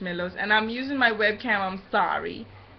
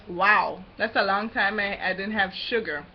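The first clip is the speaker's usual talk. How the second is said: ordinary talk, nothing marked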